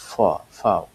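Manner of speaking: ফ, then ফাও, both opening on an 'f'; letter sound demo. Shown as a demonstration. Teacher showing V is said like F, letter sound demo. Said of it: "ফয়ের মতো উচ্চারণ করা হয়".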